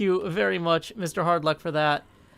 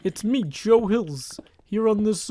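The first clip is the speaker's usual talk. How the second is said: whispered in the put-on folksy voice; slow, whispered character intro; Yogi Berra whisper; 3 semitones higher, slower than usual. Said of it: "That's an impersonation of famous".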